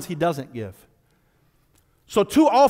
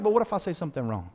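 mock timid worry; 3 semitones lower, 5 dB quieter, faster than usual. Timid believer voiced.

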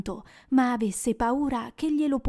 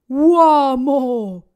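stern rebuke; 2 semitones higher, 9 dB louder than usual. Acted. Ghost rebukes Scrooge.

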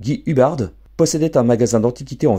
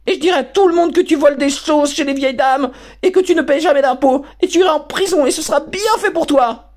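much higher and louder screaming rant; deafening tantrum; 4 dB louder than usual. Acted. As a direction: scream the whole tantrum at your father. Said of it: "hurlements les plus assourdissants et les plus aigus".

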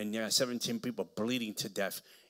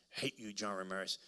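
muttered demon voice; 2 semitones lower, 7 dB quieter than usual. Retold or imitated. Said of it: "Demons manifest".

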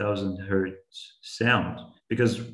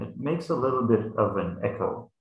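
hands over mouth. Shown as a demonstration. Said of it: "Imagine I cover my mouth with my hands".

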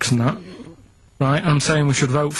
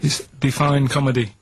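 put-on Jamaican accent. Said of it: "That's a Jamaican accent".

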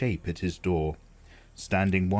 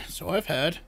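quieter wheeze, trailing off; softer wheezing crone; 9 semitones higher than usual. Acted. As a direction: wheeze the echo more softly. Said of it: "wheezed the old woman".

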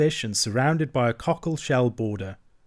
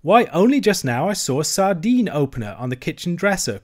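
hearty rallying. Acted. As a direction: shake a friend out of gloom. Rat rousing despondent Mole.

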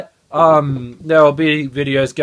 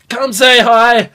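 louder invitation; 6 semitones higher, 4 dB louder, slower than usual. Real, not acted. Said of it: "my voice is kinda just getting louder".

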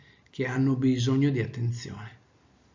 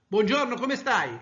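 higher, slow, pissed-off greeting; furious; 9 semitones higher than usual. Shown as a demonstration. Teacher demos a pissed-off hello to students, slow and angry. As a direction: spit out the greeting slowly and furiously. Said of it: "Incazzato, arrabbiato".

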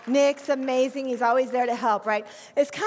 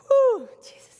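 high, loud burst of emotion; a preacher overwhelmed, crying out to Jesus; overcome exclamation; 11 dB louder, slower than usual. Real, not acted. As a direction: let it burst out, moved to tears. Overwhelmed by the child's note.

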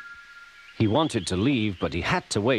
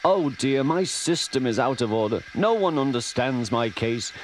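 higher, mock-suffering moan; hammed-up complaining invalid; Henry feeling sorry for himself, higher; 3 semitones higher than usual. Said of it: "moaned Henry".

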